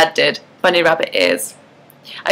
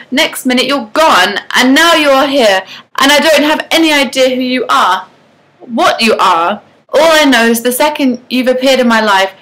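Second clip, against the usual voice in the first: fed-up rant; 5 semitones higher than usual. Acted. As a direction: let it all out in an annoyed tirade. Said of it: "I was practically screaming now".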